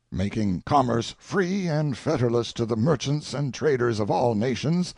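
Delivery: lightly acted royal orator, pitch leaping on key phrases; a touch of theatrical, sanctimonious grandeur; self-justifying king. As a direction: plead your noble cause with pious pomp. Plays King Leopold defending himself grandly.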